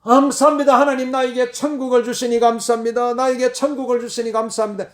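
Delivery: joyful shout of gratitude at life's end; loud thanksgiving shout. Shown as a demonstration. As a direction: proclaim your thanks to God aloud. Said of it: "그게 큰 소리로 외치는 거예요".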